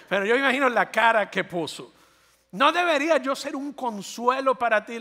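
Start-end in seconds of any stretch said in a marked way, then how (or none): 2.5-5.0 wounded husband. Acted. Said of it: "le está diciendo el Caná".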